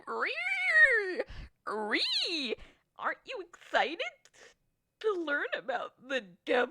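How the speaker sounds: high loud demonic shriek. Acted. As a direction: screech it gleefully.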